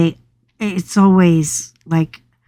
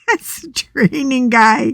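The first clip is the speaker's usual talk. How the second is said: laughing; 4 semitones higher than usual. Retold or imitated. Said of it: "she started laughing".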